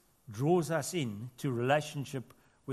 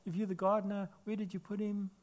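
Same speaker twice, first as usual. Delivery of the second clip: higher, softly voiced tearful plea; retold crying; 5 semitones higher, 4 dB quieter than usual. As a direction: lightly imitate a weeping woman's question. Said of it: "she's crying and saying".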